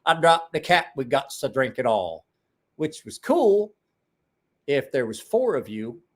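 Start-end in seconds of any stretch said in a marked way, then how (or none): 0.0-2.2 mock innocent pal. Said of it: "He's like".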